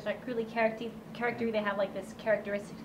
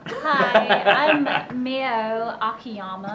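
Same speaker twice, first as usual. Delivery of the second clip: put-on Valley Girl voice; 7 dB louder, much slower than usual. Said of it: "you should have done her Valley Girl".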